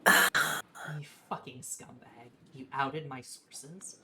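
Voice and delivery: loud slow accusation to a betrayer; slow furious yell. Acted. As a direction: let the rage out on the reread, word by word. Rereading the same line, second take.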